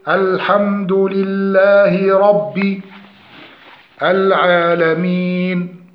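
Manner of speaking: slow recitation of الحمد لله رب العالمين, full i after رب; full kasra. Shown as a demonstration. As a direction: draw out each long vowel in العالمين. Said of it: "إشباع كسرة الباء". (تلاوة بطيئة بكسرة باء محققة)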